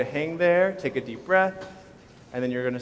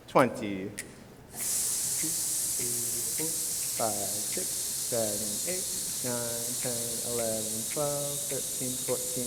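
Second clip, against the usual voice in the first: soft counting; 6 dB quieter, slower than usual. Shown as a demonstration. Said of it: "counting while class hisses out".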